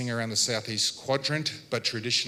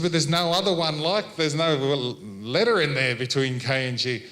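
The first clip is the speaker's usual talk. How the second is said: retold protest; 3 semitones higher, 4 dB louder than usual. Retold argument with Auntie.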